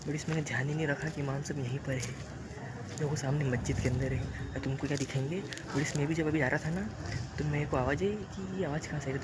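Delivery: hushed, keeping the voice down; speaking quietly. Real, not acted. Vlogger near the mosque, keeping his voice down so the imam isn't disturbed. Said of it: "मैं धीरे बोल रहा हूँ".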